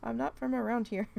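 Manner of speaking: mock-snap back at a teasing coworker; retold indignant outburst. Telling off the supervisor who mocked her accent, indignant and loud. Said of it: "I said".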